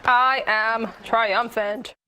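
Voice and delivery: very slow, grand proclamation; mock triumphant. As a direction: savour each word like a victor. Declares victory after hot sauce.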